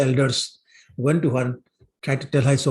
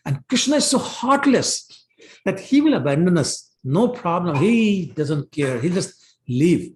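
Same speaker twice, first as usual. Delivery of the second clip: mildly acted anger, high at the start then settling; angry complaint; 4 semitones higher than usual. Gopis feel abandoned by Krishna, mildly angry. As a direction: voice an aggrieved accusation, lightly indignant. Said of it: "they got angry with Krishna".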